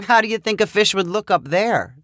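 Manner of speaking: with a chuckle. A narrator's reading. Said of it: "she asked with a chuckle".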